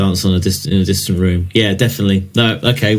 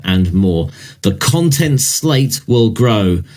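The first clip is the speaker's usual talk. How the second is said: measured press-release reading voice; marketing read. Acted. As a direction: read the product announcement like marketing copy. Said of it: "I'll do it in a marketing style".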